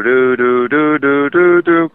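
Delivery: slow sing-song "doo, doo, doo" creeping steps; slow creepy-walk noise. Retold or imitated. Imitating the clown creeping behind, slow creepy doo-doo noise. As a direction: mimic slow, creepy footsteps with doo sounds. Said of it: "do the very slow".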